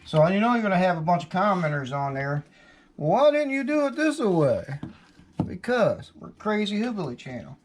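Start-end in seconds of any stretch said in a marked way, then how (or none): 3.0-4.7 mock commenter voice. Mocking imagined commenters.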